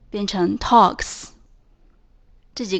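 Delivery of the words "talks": "talks" slowly, closing on a hissed ks; voiceless S ending. Shown as a demonstration. Teacher changing talk, "talks" ending in voiceless s. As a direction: finish "talks" with an unvoiced s after k. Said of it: "那加的S发音就是S".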